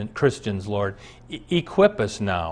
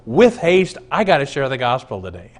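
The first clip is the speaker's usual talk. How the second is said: eager shepherd. Pretend. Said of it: "like the shepherds, go".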